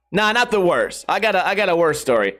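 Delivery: ordinary talk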